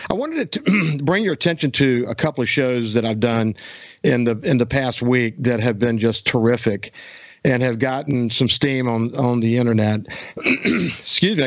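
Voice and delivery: throat catching, needs clearing; a frog in the throat, clearing it. Real, not acted. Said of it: "I got a little frog in my throat".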